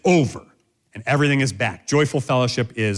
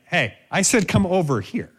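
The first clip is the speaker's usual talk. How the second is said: higher, insistent parental command; stern, raised-pitch insistence; firm parent; 5 semitones higher than usual. Acted. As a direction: firmly repeat the order to a child. Parent repeats command to child.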